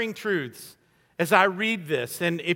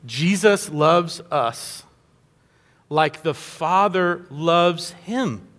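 slow, choked-up and lower, fighting real tears; tearing up; 5 semitones lower, much slower than usual. Real, not acted. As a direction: let the words slow and catch as tears come. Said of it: "Whew, I'm gonna tear up".

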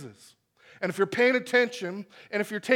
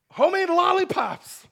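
high, bright sing-song offer to toddlers; sweet mom voice; 11 semitones higher, 5 dB louder than usual. Retold or imitated. Mom tempting her small kids, pitched-up sing-song. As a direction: play the tricky mom dangling a treat, pitched up.

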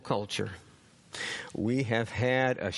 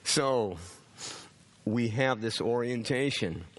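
ordinary talk

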